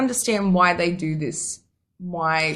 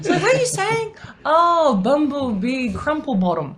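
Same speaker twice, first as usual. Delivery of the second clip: amused mock; 8 semitones higher, 4 dB louder than usual. Real, not acted. Mocking mangled actor's name.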